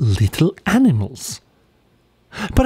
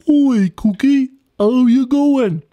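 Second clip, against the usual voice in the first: raised, slow Aussie greeting to a mate; high friendly greeting; 11 semitones higher, 3 dB louder, slower than usual. Acted. Platy greets Cookie, slow and high. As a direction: call out slow and high like a cheery bush animal.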